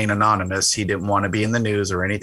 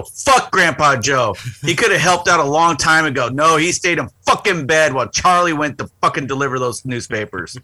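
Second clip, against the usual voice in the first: hammed-up grudge against a storybook grandpa; mock angry rant; 3 semitones higher, 3 dB louder than usual. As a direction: rant in joking outrage. Rant about Grandpa Joe.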